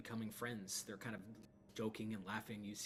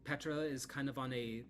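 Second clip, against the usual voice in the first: higher, louder, eager agreement; happily agree, then hedge; cheerful Arabelle; 4 semitones higher, 6 dB louder than usual. Acted. Arabelle agrees to help Lydia but mentions Petra, eager.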